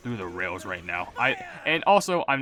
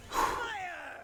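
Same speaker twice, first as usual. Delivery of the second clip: long breath out through the mouth; deep exhale; 9 dB quieter than usual. Shown as a demonstration. Showing a breathless viewer how to breathe, deep exhale. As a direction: let a slow breath go to demonstrate. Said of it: "take a deep exhale out".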